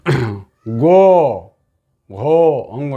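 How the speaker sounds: गो, घो, अंगो each pushed out with throat force; teacher sounds गो, घो, अंगो with audible effort; forceful demo syllables. Shown as a demonstration. Teacher to students showing voiced friction: forceful गो, घो, अंगो. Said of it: "बल लग रहा है।".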